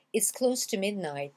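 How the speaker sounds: T of TO softened toward a gentle D; soft T. Shown as a demonstration. Teacher shows learners the soft D in TO. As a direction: say TO as a soft "duh" before midnight. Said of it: "qui devient D mais doux".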